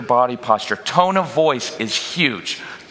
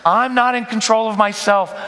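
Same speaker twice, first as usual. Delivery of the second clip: high pleading whine; plead, sounding out of control; 8 semitones higher than usual. Shown as a demonstration. Parent pleading with kids in a high voice. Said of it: "that pleading tone".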